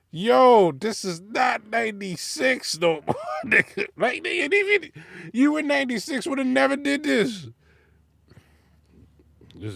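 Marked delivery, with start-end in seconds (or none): 0.1-7.5 much higher pitched disbelief; incredulous rant. Real, not acted. Scolding a rapper for the dated line, high incredulous rant. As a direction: plead with him in disbelief.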